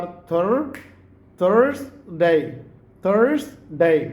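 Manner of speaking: "Thursday" split as "THURS-DAY"; slow, careful "Thursday"; American Thursday. Shown as a demonstration. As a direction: sound the r in "Thursday", two beats. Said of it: "थर कैसे, कैसे बोलेंगे आप?".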